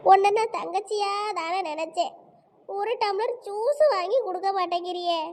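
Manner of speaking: mild theatrical whimper; tearful complaint. Acted. Woman reproaching her sister-like friend, mock-tearful complaint. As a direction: complain as if betrayed and crying. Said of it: "அழாதீங்கக்க".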